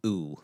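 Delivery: pure "oo" vowel, as in a U; a clear demonstrated oo; O as an oo sound. Shown as a demonstration. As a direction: say "oo" as the sound the O turns into. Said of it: "O's will end up sounding like".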